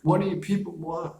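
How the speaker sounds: high, fast, frantic woman's voice; shrill it out like a cornered victim; panicked Sally. Retold or imitated. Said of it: "And she's like".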